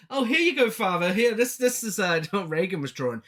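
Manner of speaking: chirpy and unconcerned; cheerful. Retold or imitated. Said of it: "Really happy about it".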